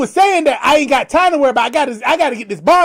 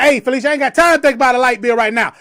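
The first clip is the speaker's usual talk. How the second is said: retelling own reply; 3 semitones higher, faster than usual. Retold or imitated. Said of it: "And I said".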